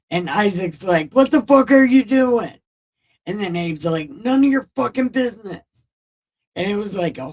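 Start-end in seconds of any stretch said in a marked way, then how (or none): 1.1-2.6 high loud panicked shout; tied-up son yelling at his dad, high and loud; mock panicked yell. 4.1-5.6 mock snappy retort. Father snapping back.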